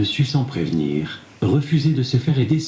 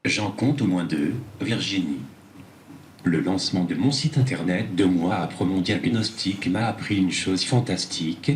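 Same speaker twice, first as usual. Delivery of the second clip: synthetic tablet voice; text-to-speech reading. Real, not acted. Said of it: "c'est grâce à cette tablette". (voix de synthèse)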